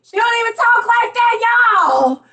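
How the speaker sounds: high, loud disbelief; high excited disbelief; incredulous. Real, not acted. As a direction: exclaim it in disbelief. Incredulous aside to viewers.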